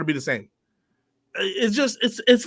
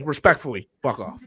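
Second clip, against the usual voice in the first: mock polite; 7 semitones lower, 5 dB quieter than usual. Mock-polite apology to Danny.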